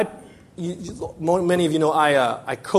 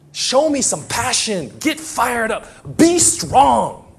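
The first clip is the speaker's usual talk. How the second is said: fired-up coach's timeout speech, pitched up; coach yelling; 4 semitones higher, 4 dB louder, slower than usual. Acted. Coach rallies a losing team at timeout, yelling. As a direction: drive the players hard, punching the commands. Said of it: "I'm gonna yell him right".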